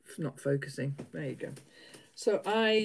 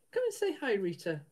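higher sing-song call to the dog; coaxing pet voice; 4 semitones higher than usual. Real, not acted. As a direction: coax the dog up, pitched up and sweet.

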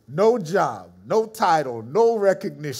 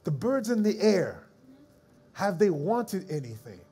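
voice of God. Retold or imitated. Voice of God in spirit.

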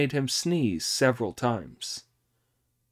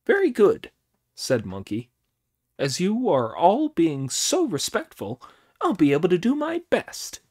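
higher, eager trickster Monkey; quick, cocky monkey king boasting; 7 semitones higher, 5 dB louder than usual. A narrator's reading. Monkey voiced.

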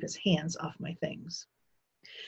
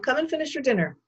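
raised, higher summoning voice; calling out; 8 semitones higher, 4 dB louder, faster than usual. A narrator's reading. Father summons his son to dinner, calling out. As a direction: call it through to the next room. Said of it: "my father called".

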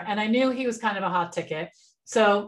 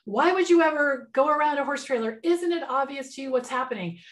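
mild mock yell, pitched higher; retold angry scream; 5 semitones higher than usual. Man scolding her for driving round a horse trailer, mildly indignant. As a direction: imitate an indignant scolding without really shouting. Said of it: "he screamed at me".

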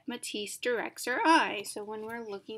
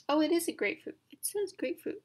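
sudden realization; 6 semitones higher, faster than usual. Real, not acted. Realizes the fruit is grapefruit.

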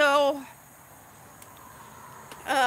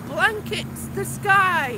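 drawn-out, louder quote of odd wording; baffled quoting; 3 semitones higher, 8 dB louder, much slower than usual. Retold or imitated. Vlogger reading gibberish drone instructions to viewers, baffled quoting. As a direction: stretch it out loudly, quoting nonsense.

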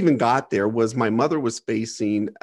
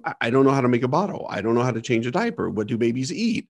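fast, tumbling retold panic, a touch of fear; panicked rush; faster than usual. Nine-year-old alone with a crying baby, rushing in panic. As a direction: rattle the questions off quickly, half-panicked. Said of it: "you start going into panic mode".

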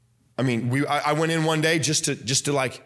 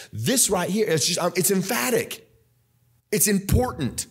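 fervent preacher's delivery; preaching; 3 semitones higher than usual. Acted. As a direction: lift it into a raised pulpit cry. Preaching at full force again.

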